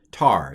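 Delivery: Tar said as one closed syllable; syllable demo. Shown as a demonstration. Teacher sounding out a closed syllable, Tar said short. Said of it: "T A R".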